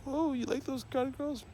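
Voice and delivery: mock judgmental asker. Mocking white people who judge guys' taste, high and snooty. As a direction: mimic a prissy questioner.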